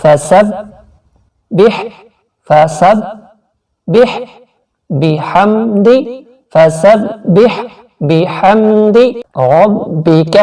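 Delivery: drawn-out chanted phrase; careful tajweed reading; slow recitation. Shown as a demonstration. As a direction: recite slowly word by word. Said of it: "Urdu تلفظ".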